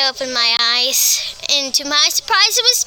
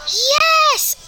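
excited scream; 13 semitones higher than usual. Acted. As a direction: shriek it on finding the money. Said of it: "I screamed".

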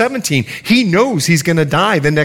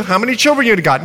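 quick Bahamian grandmother, raised pitch; Bahamian accent; 4 semitones higher, faster than usual. Retold or imitated. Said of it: "She's Bahamian, excuse the accent".

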